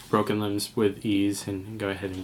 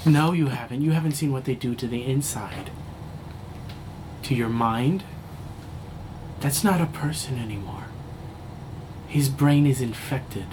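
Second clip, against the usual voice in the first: higher, frantic warning from a scared survivor; a hint of panic, pushing the words out; terrified survivor; 4 semitones higher than usual. Dying survivor to the medic about the bees, panicked.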